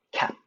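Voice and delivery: 'kept' cut short as 'kep', t not released; unreleased final t. Shown as a demonstration. Teacher showing the final-sound rule, 'kept' with silent t. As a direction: stop 'kept' before the t bursts. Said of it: "절대로 터지지 않겠죠".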